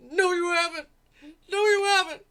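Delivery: high, loud exaggerated whine; mock whiny girlfriend. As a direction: ham up her denial. Mocking crying girlfriend's clip line.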